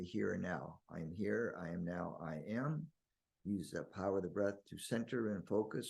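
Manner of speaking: calm, measured meditation lead-in; guided meditation. Real, not acted. Guiding listeners to breathe and ground, calm meditation voice. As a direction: gently guide listeners into focus.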